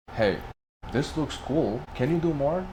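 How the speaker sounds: impressed. Retold or imitated. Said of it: "my manager was like".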